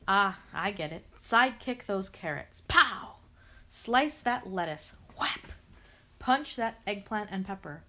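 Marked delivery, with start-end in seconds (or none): 2.7-3.1 loud pow. Acted. Karate sound effect.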